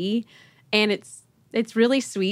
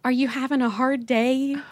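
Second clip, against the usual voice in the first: put-on slightly higher, gentle child's question; lightly voiced child; 4 semitones higher than usual. Daughter to crying mom in front seat, lightly imitated concern. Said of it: "And she said".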